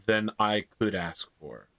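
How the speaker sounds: put-on Irish-accented grateful priest. Irish priest thanks and apologises to a great lord, Irish accent. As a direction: accept the gift in an Irish accent. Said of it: "in a very Irish accent".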